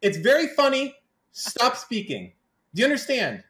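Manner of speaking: playful fake fury at a co-host; mock threat. Host jokingly threatening Mister Moon on the panel, mock anger.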